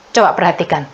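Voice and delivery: ordinary delivery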